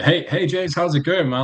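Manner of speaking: bright, eager tone. Retelling greeting the interviewer on a video call: imitating own energetic greeting. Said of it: "really energetic".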